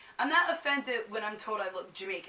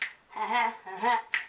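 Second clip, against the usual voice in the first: short laugh. Real, not acted. Laughs during her sign-off.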